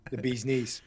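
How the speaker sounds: breathy stage whisper on the punchline; whispered aside. Real, not acted. Actor joking to the host about his character, whispered. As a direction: whisper it like a secret joke.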